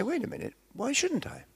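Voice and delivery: high, indignant "why shouldn't I?". Shown as a demonstration. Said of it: "I want you to say".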